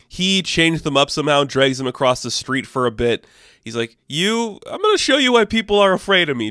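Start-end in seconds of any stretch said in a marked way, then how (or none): 4.1-6.5 menacing threat. Retold or imitated. Moon Knight threatening the vampires.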